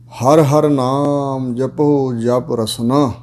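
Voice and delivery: very slow, drawn-out recital of each word; slow scripture recital. Shown as a demonstration. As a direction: lay out the sacred line word by word, slowly.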